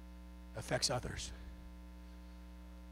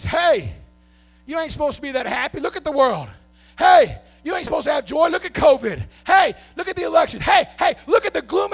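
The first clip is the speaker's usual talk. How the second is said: a lightly voiced nagging forecaster, louder and higher; mocking weatherman; 11 semitones higher, 14 dB louder than usual. Preacher mimics weatherman scolding joyful listeners, mildly hammed. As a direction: jeer like a gloomy forecaster. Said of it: "the weatherman says".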